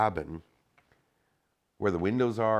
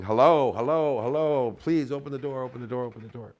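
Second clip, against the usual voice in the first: high, loud pleading calls, fading; retold yelling; 6 semitones higher, 4 dB louder than usual. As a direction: call out high, then fade. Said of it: "yelling and saying".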